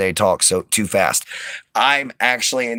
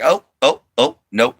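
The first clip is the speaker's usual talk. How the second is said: lightly voiced reluctant dog, pitched up; voicing the dog; 5 semitones higher than usual. Dog refusing to come to owner, lightly voiced. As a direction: play a dog balking at a jump. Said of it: "looked at me like".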